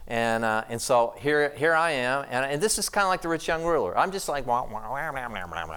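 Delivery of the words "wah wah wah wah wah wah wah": soft nonsense wah wah babbling; mock babble. Mocking his own clueless chatter at dinner, soft babble. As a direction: babble like you don't know what you're saying. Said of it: "I'm just talking like this".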